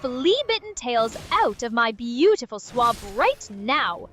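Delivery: emphatic, punched ogre tirade; mock scolding scream. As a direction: order them out, hammering each word. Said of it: "Scream at 'em i-, from your swab".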